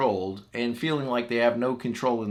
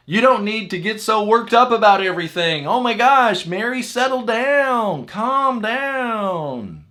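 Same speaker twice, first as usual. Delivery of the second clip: high, loud mock exasperation; exasperated scolding; 12 semitones higher, 8 dB louder than usual. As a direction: shush someone you think is overreacting. Scolding an upset eight.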